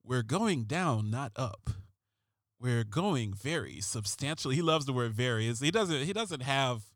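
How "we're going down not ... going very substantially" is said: drawn-out brooding TV detective; David Caruso voice. Retold or imitated. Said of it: "I'm gonna use a David Caruso voice".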